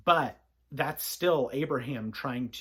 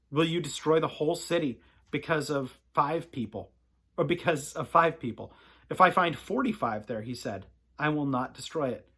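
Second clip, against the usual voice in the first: measured, serious reading of the Bible passage; sober scripture reading. Acted. Pastor reading scripture soberly to listeners at bedtime. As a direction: read it soberly, weighing each line. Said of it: "I read that a little bit more soberly".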